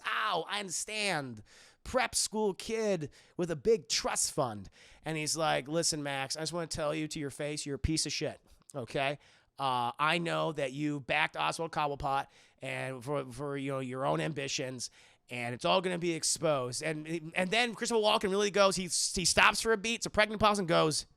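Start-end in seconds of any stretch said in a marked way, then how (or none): 5.7-16.8 low Bruce Wayne voice. Retold or imitated.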